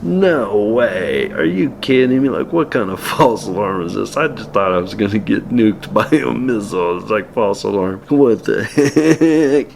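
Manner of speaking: half-laughing are you kidding me; mock disbelief. Learning the missile was a false alarm, incredulous.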